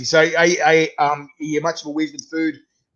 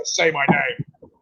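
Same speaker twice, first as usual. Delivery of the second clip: Walter White impression; much slower than usual. Shown as a demonstration. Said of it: "Just go".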